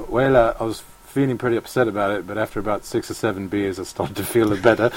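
put-on light South African accent; quoting Ernie in a South African accent. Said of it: "On the spot South African accent there".

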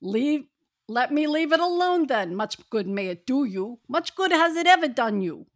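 a lightly voiced cranky miser; grumpy miser Scrooge. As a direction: sneer at the holiday like a bitter old skinflint. Scrooge's lines in group reading.

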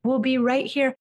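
tender reassurance. Shown as a demonstration. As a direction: reassure him gently, like a calm parent. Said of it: "And you just say to him".

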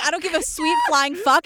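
imitated snapping at normal volume; mild retold snap. Host re-enacting Keith finally losing it with Ed, mildly snapping. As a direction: lightly act out someone losing patience. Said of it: "like, snapping".

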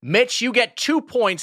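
high, slow host announcement; game show host. Acted. Announcing the winner.

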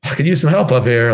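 frantic pilot begging passengers over the loudspeaker; a hammed-up pilot in a panic; panicking pilot yelling. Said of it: "like, yelling at people".

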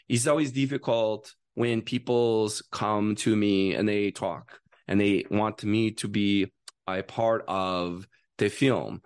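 measured, slowing Kazakhstani accent; Kazakh accent. Shown as a demonstration. Actor demonstrating for the director, Kazakh accent. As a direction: speak haltingly with a put-on Kazakh accent. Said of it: "their accent is like".

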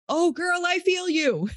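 sympathetic special needs mom. Retold or imitated. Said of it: "you're like".

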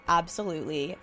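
soft, settled yes; calmed down. Retold or imitated. Accepting his proposal once calm, soft and settled. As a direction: answer quietly, composed after freaking out. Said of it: "I finally calm down".

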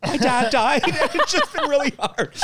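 high, loud mock-weepy voice broken by laughter; mock tearful. Guest spoofing a therapy confession, mock tearful. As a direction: pretend to sob through giggles.

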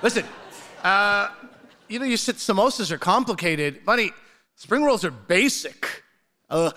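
ordinary talk, nothing marked

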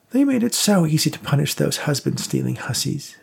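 put-on high, scornful old woman. A narrator's reading. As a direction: sneer it as a bitter old lady. Rose's voice in narration.

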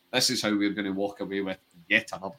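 words forced through clenched teeth; gritted teeth. Retold or imitated. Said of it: "he says through gritted teeth".

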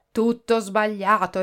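slow, appalled outburst; horrified exclamation. Acted. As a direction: recoil at a wrong cure. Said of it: "esclamò il professore delle lattughe, inorridendo". (esclamazione inorridita, lenta)

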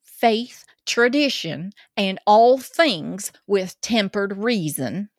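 slow, deliberate Southern drawl; Georgia accent. Acted. Co-host reading Ten Commandments aloud, slow Georgia accent. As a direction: intone each item slowly in a Georgia accent. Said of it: "through the Georgia accent".

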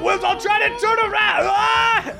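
high, calling out across distance; shouting from afar. Acted. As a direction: yell after them as you drift. Tab calls out while drifting away.

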